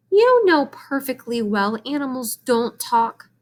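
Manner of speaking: a hint of an anxious mom; insist, a little fretful; lightly voiced worried mother. Mrs Arable voices her worry to her husband, fretful mom.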